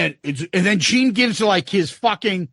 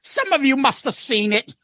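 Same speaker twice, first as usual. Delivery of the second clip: Ace voice; 5 semitones higher than usual. Retold or imitated. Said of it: "then they asked Ace".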